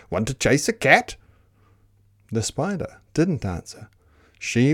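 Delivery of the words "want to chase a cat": lightly voiced storybook dog; barking dog. Dog inviting the spider to chase, lightly barked. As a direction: ask it like an eager dog. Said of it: "barked the dog".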